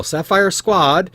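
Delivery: high, loud, stretched-out summons; calling out. Acted. Crier summoning another team to go up, calling out. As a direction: announce the team slowly and loudly. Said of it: "you hear 'em call".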